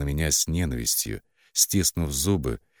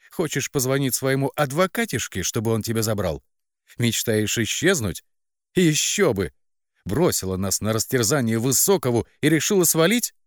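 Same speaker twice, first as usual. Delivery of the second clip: higher, scornful sneering jeers; mocking sister; 6 semitones higher than usual. A narrator's reading. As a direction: sister mocks her runaway sibling, sneering and higher. Sister mocks heroine's wish to leave.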